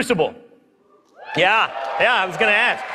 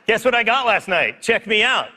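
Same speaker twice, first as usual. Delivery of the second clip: lightly voiced cocky show-off, pitched up; Luke Smith impression; 5 semitones higher than usual. Presenter mocks his childlike coworker bragging about loot, light impression. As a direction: brag like an excited kid, lightly mimicked. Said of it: "That's my best Luke Smith impression".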